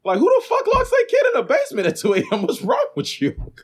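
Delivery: high, fast outraged disbelief. Real, not acted. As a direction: throw up your hands, high and fast. Outraged at locked basement.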